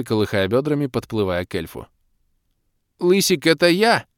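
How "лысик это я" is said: high, louder squeaky yelp; yapping squeak. A narrator's reading. Doc butting in on the demoness, high squeaky yap. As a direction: yap it out like a small dog. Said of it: "вякнул Док".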